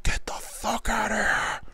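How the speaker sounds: slow, breathless whisper of disbelief; stunned whisper. Retold or imitated. Base coach can't believe the kid made it: slow whisper. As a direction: hiss it in disbelief.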